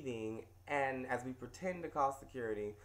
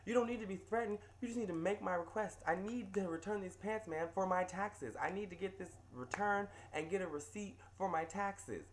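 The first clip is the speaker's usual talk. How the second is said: pushy customer; 5 semitones higher than usual. Retold or imitated. Angry customer quoted.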